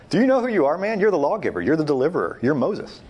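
rising exhortation, every "You're" driven home; excited preaching. Acted. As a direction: fire them up about who they are. Preacher urging listener's identity.

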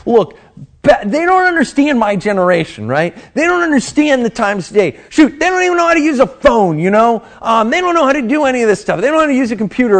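mock the clueless parents, picking up speed; dismissive student rant. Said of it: "I know it's easy to be like".

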